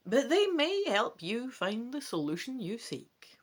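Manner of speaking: geheimzinnig gefluisterd; fluisterend. Acted. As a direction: deel een geheim in fluistertoon. Old woman hands over secret.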